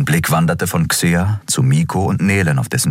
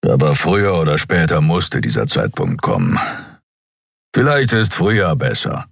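a bit milder. A narrator's reading. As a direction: soften the gruffness a little. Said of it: "Etwas milder fügte er hinzu". (Keru etwas milder zu Kai)

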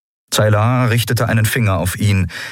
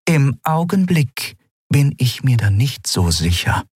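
higher, measured, coolly disappointed; Zayla, cold captain; 7 semitones higher than usual. Acted. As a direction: warn him politely but coldly. Narrator voices Zayla. (Kapitänin kühl enttäuscht)

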